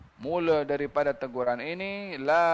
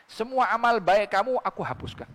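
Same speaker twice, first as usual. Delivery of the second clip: higher-pitched, lightly acted divine warning; God's warning; 5 semitones higher than usual. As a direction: quote a stern threat with mild force. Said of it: "Tuhan berbicara seperti itu".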